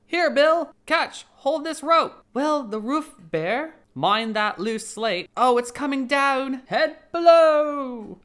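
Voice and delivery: high, loud, slow shouting workmen; shouting warnings. Acted. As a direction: bellow a warning from the roof.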